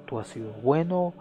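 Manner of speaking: prayer. Acted. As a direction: pray tenderly to the Father. Pastor begins closing prayer.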